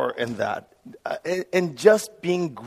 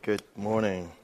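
subdued greeting; 7 semitones lower, 9 dB quieter than usual. Shown as a demonstration. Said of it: "Let's try that again".

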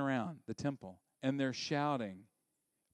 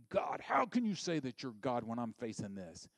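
indignant. Acted. Believer questioning God in hardship, mildly indignant. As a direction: protest to God with a touch of outrage. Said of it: "I either become indignant".

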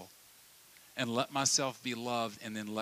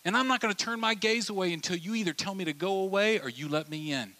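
much higher, urgent pressing voice; insistent friend; 8 semitones higher than usual. Retold or imitated. Friend insists on answer, high and urgent. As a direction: press hard, won't look away. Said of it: "They're saying".

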